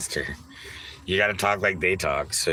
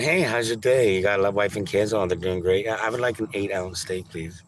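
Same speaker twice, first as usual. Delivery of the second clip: polite chatty. Shown as a demonstration. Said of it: "Instead of being polite".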